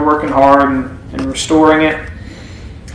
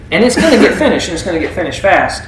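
fast emphatic; 2 semitones higher, faster than usual. Shown as a demonstration. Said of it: "repeated phrase, faster and emphatic".

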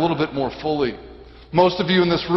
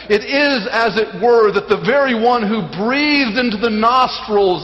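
raised, forceful sermon delivery; emphatic preaching; 4 semitones higher, 4 dB louder than usual. Real, not acted. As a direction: proclaim it with weighty emphasis.

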